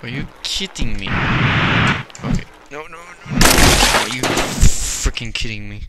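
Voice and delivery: gamer reacting in a mock German accent; put-on German accent. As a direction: play it with a hammy German accent. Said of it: "I'm getting tired of doing ac-, accent".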